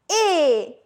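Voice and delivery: closed, drawn-out vowel on "Et"; closed é sound. Shown as a demonstration. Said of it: "My mouth is like that". ("Et" en é fermé, allongé)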